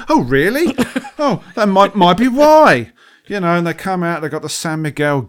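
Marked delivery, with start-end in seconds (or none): 0.1-2.9 high "Oh, really?" dissolving into laughter; a mock-serious reply breaking into laughter; sarcastic laugh.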